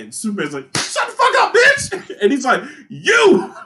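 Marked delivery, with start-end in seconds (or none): 0.8-2.2 high, hammed-up yell; imitated rage, pitched way up; angry Superman outburst. Acts Superman cutting Batman off. 2.9-3.5 high, loud mock shout; single him out with one loud word; hammed-up furious call-out; accusing Superman yell. Acts Superman singling out Joker.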